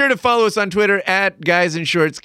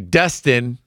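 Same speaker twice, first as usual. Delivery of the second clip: normal talking voice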